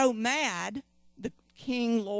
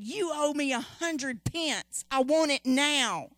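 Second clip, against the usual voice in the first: a hint of a harsh creditor, slow and rising louder; demanding servant; 4 semitones higher, 5 dB louder than usual. The servant choking his fellow servant, demanding angrily. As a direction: lean on the debt with mounting force.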